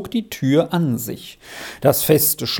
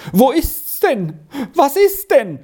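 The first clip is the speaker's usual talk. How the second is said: alarmed cry; 11 semitones higher, 3 dB louder than usual. A narrator's reading. Fräulein Malva calls out at the terrible racket, greatly alarmed. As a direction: call out in great alarm, high and stretched. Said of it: "in großem Schrecken ausrufen".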